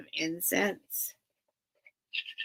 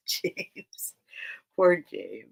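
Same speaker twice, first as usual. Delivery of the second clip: breathy whispered pity for the cat; laughing whisper to cat; 3 semitones lower, much slower than usual. Real, not acted. Streamer whispering fondly to her cat James. Pitying cat after saying she's sad.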